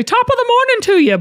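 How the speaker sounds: high, fast, hammed-up British-Irish lilt; British accent attempt. The speaker doing a requested British accent for Zach, hammed-up. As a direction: toss off a quick mock British greeting. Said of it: "Best British accent right now. Go".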